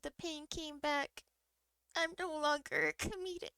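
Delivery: mild tearful. Retold or imitated. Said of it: "And I started crying".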